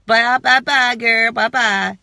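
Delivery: loud, sassy brush-off; sassy goodbye. Pretend. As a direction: wave them off with attitude. Dismissing negative people.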